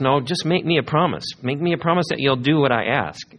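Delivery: mock a kid begging for a promise; whiny child.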